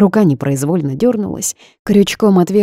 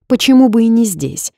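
high, loud stubborn challenge; stubborn retort; 7 semitones higher, 5 dB louder than usual. A narrator's reading. Heroine stubbornly refuses to drop the subject. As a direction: dig in and push back. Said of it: "заупрямилась я".

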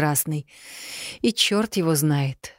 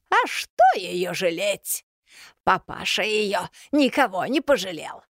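slow, higher, bitter crone voice; spat out; 3 semitones higher than usual. A narrator's reading. Yaga spits bitterly to Solovey about Elena's father. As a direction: spit the words with contempt. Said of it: "практически выплюнула Яга".

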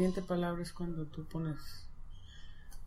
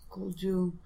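ordinary talk

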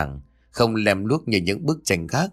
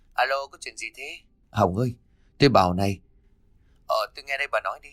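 phone voice; 2 semitones higher, much faster than usual. Acted. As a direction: sound like the phone line. Friend on the phone.

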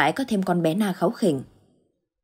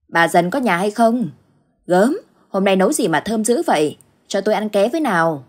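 bold, cheerful call from outside; a hearty old neighbour calling in, a bit louder; 3 semitones higher, 4 dB louder than usual. Acted. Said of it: "Giọng bà Đoan cất lên hào sảng". (giọng bà hàng xóm gọi hào sảng, to hơn chút)

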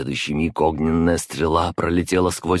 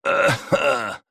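coughing blood; 8 semitones higher than usual. A narrator's reading. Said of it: "Кровью закашлял".

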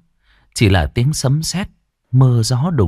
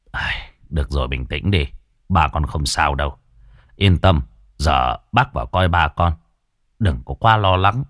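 put-on calm a frightened child; reassuring old doctor; 7 semitones lower than usual. A narrator's reading. Old doctor soothes the crying boy, reassuring.

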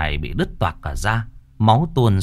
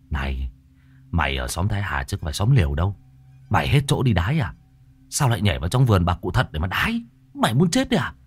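scolding friend; faster than usual. Acted. Hoan warns Hỷ off the old woman's garden, fast scolding.

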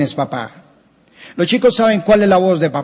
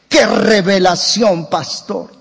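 mock awe; slower than usual. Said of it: "una familia que me ha dicho".

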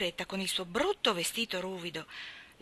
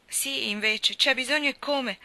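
higher, louder tearful retort; tearful protest; 5 semitones higher, 5 dB louder than usual. Acted. Crying orphan answering Marilla, tearful and high. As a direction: wail it back through tears.

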